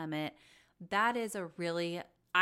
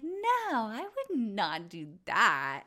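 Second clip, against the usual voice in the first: mock denial; 2 semitones higher, 4 dB louder, slower than usual. Acting Raquel's denial.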